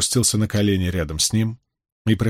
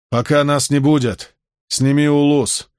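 slurred speech; 5 semitones higher, 4 dB louder than usual. A narrator's reading. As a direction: slur it like a dazed wounded man. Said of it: "велел Темуджин заплетающимся языком".

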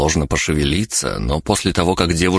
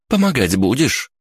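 higher-pitched, insistent question; demanding; 8 semitones higher than usual. A narrator's reading. Girl turns on the idle onlooker, demanding. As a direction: press your companion to pitch in.

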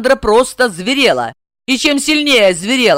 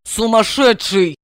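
slow contemptuous word; spat through teeth. Acted. Блондинка цедит сквозь зубы, медленно. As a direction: hiss it with contempt. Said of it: "процедила блондинка".

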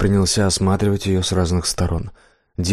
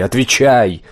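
loud furious command; angry demand; 4 semitones higher, 5 dB louder, slower than usual. Acted. Death ordering the blacksmith to answer, loud fury. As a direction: bark the order at him.

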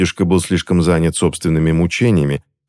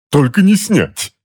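much higher, slow, loud outcry stressing не; much higher slow desperate cry; desperate protest; 11 semitones higher, 4 dB louder, slower than usual. A narrator's reading. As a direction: cry out against it. Husband protesting.

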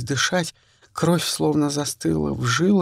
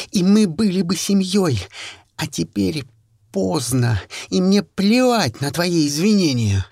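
tense, raised furious voice; angry hiss; 3 semitones higher than usual. Acted. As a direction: spit it at her. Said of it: "зашипела так".

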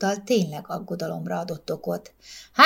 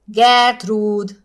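louder sharp snap of her name; snapping irritably; 3 semitones higher, 8 dB louder than usual. A narrator's reading. Husband snaps at his nosy wife, irritated. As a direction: cut her off, losing patience. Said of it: "csattant fel Heinz, most már egy kissé idegesen".

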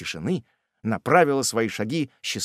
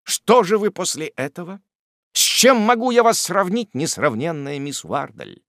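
much higher, louder gushing praise; rapturous; 8 semitones higher, 5 dB louder than usual. A narrator's reading. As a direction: gush with delight. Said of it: "говорил восторженный Топман".

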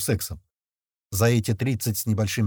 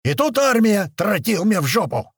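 hollering army rant, loud and high; Nagiev; 9 semitones higher, 5 dB louder than usual. A narrator's reading. Officer from a film rants at his soldiers, hollering. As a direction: holler it like a film drill commander. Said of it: "когда он орал".

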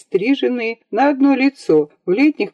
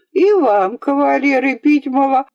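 nanny, breaking off; 7 semitones higher than usual. Acted. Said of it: "и запнулась".

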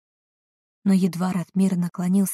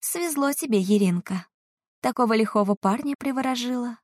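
envious hiss; 5 semitones higher than usual. Acted. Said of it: "прошипела ... сочащимся завистью голосом".

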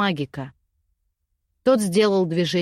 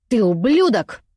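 snarling; 5 dB louder than usual. Acted. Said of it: "оскалилась Цефея".

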